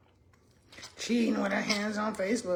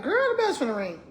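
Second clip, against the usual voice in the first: secretary's warning; 7 semitones higher, 4 dB louder than usual. Retold or imitated. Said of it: "She's like".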